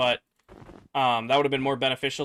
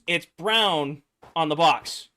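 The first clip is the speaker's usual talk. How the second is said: slow, insistent mock complaint; livid; 2 semitones higher, 4 dB louder, slower than usual. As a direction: spell it out like an irritated customer. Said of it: "She's livid. She's pissed".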